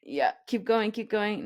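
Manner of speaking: straining with shoulders hunched up; shoulders shrugged tight. Real, not acted. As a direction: talk while holding a tense shrug. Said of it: "Hold it, hold it".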